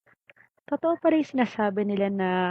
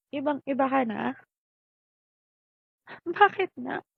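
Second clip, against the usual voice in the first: hurt reproach; 5 semitones higher, 4 dB louder than usual. Acted. Mother complains child ignores her.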